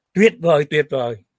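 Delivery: loud mock shouting, "great, great".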